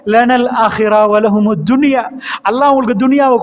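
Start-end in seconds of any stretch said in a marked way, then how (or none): 0.1-2.0 slow, measured Quranic chant; sermon recitation of an Arabic verse, slow and solemn. Acted.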